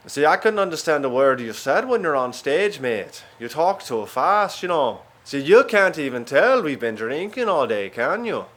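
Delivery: mock Yorkshire accent; Yorkshire guys. Yorkshire guys complaining to the American comic, mock Yorkshire accent. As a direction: put on a Yorkshire bloke's accent. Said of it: "the Yorkshire guys said they couldn't understand me".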